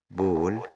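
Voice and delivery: بول with a long rounded "aw" vowel. Shown as a demonstration. Teacher giving pupils the ball example, A as O in بول. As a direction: say بول as "bawl", A turned to O. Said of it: "بتتنطق O".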